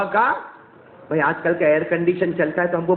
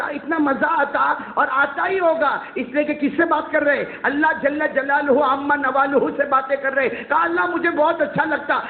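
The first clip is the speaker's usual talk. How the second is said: higher-pitched eager storytelling; delighted insistence, pitched up; 5 semitones higher than usual. Acted. Moses tells God he enjoys talking, eager.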